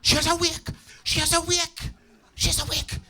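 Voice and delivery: high, loud astonished cry; excited gasp. Acted. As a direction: gasp as her eyes flicker. Family sees her wake.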